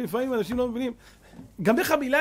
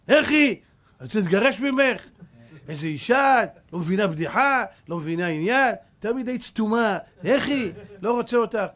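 loud scornful rant; angry husband rant; 3 dB louder than usual. Retold or imitated. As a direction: berate the wife. Husband rants about wife. (בעל כועס מתלונן על אשתו)

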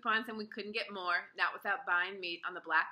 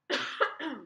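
single sharp cough; a real cough mid-reading; 7 semitones higher, 4 dB louder than usual. Real, not acted. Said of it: "Excuse me".

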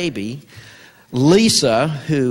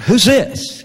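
laughing mock gruff; 9 semitones higher, 4 dB louder than usual. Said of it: "four letter word language".

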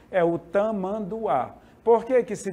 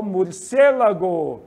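slow demo word; 5 dB louder, slower than usual. Shown as a demonstration. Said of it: "no espanhol".

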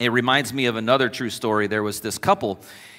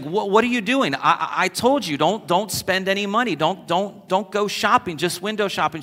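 mock angry husband; 7 semitones higher than usual. Husband loses it over dress.

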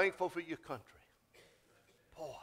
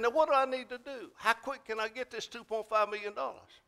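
higher-pitched, eager questions; retold excitement; 6 semitones higher than usual. Preacher retelling his questions to the prize caller, mildly excited. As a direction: imitate your own excited eagerness. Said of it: "Well, I got excited".

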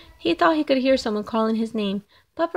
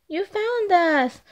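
relieved family; 6 semitones higher than usual. Acted. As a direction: welcome him home with relief. Family greets the found pup.

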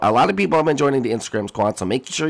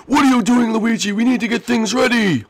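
high, half-sorry little voice; high squeaky character voice; 11 semitones higher, 3 dB louder than usual. Acted. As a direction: apologise in a squeaky voice.

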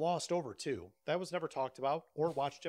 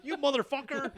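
mock curse; 8 semitones higher than usual. Acted curse, laughing.

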